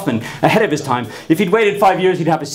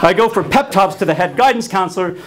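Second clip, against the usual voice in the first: laughing; 3 semitones higher than usual. Real, not acted. Laughing through telling.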